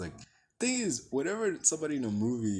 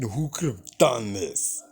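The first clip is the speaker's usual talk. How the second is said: mocking repeat; 4 dB louder, slower than usual. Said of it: "what the fuck do you mean".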